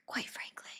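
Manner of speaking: very soft, breathy Trump attempt; barely voiced impression, given up on; failed Trump voice. Shown as a demonstration. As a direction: try Trump almost under your breath. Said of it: "cannot do a Trump voice".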